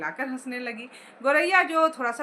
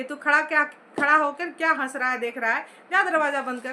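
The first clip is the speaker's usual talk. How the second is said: scolding father. Acted. Father scolding his son to shut the door, a mild sharp rebuke. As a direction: rebuke the boy standing there laughing. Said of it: "झिड़क कर कहा पिताजी ने लेखक को".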